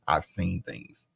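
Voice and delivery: slow, low, lightly voiced war-weary soldier; imitating a traumatized military guy, low and slow; haunted veteran. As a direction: say it slowly like a man with PTSD. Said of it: "He sounded like that guy".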